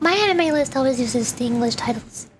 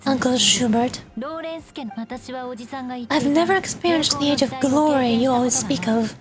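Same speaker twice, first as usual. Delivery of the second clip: lightly voiced, formal declaration; resolute noblewoman. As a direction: stand firm against an elder, measured and earnest. Voices the niece renouncing clan ideals.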